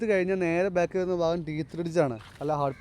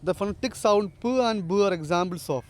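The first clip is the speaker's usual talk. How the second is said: slow dictation; much slower than usual. Shown as a demonstration. Teacher reads out quiz question.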